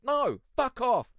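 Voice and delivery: high, loud fed-up snap back; mock retort. Streamer snapping back at the announcer, loud and high. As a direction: tell the announcer off. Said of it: "I'm like".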